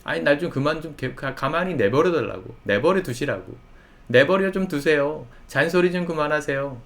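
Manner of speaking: exasperated retort, lightly acted; imitated angry complaint. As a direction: act out an irritated youth pleading to be left alone. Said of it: "라고 막 화를 내요".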